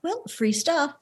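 whisper. Acted. Greedy gleeful aside over loot.

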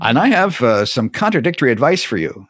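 mock-grand angel announcing himself; showy, self-important angelic greeting. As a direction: boom it out like a big, beautiful angel. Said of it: "big, beautiful ang-, angelic body and say".

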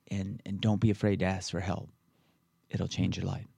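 pillow talk voice, hushed and intimate. Real, not acted. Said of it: "I just went to, like, pillow talk voice".

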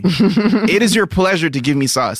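slow, mildly high disbelief; incredulous repeat. Retold or imitated. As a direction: drag it out in disbelief. Repeating the quote.

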